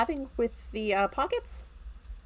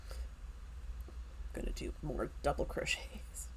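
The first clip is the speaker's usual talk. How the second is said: slow, soft whisper; 8 semitones lower, 15 dB quieter, much slower than usual. Real, not acted. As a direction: whisper it to yourself. Whispered aside while crocheting.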